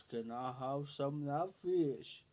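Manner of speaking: imitating a slow talker, words stretched; slow-talking Leroy. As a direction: drawl it out like a slow-witted friend. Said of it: "That's how he talked".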